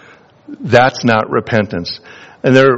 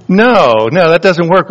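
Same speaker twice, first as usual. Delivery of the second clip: a sharp, louder, higher "No, no"; emphatic rejection; 6 semitones higher, 4 dB louder than usual. Real, not acted. Preacher to congregation, a louder emphatic no. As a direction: shut the excuse down firmly.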